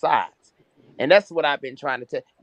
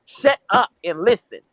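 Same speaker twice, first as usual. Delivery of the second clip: angry shout; 5 semitones higher, 7 dB louder than usual. Real, not acted. Shouting down the other guest.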